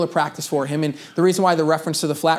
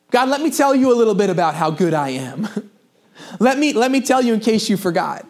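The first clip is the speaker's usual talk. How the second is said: a self-satisfied prayer with a laugh in it; hammed-up proud believer; smug boasting Peter; 3 semitones higher than usual. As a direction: brag to God, chuckling at your own goodness.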